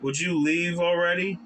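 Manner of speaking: put-on grumpy old merchant snapping; rude merchant. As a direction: bark at the pesky boy. Merchant shoos again.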